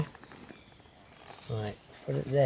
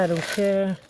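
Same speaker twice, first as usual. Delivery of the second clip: higher sing-song; 5 semitones higher than usual. Real, not acted.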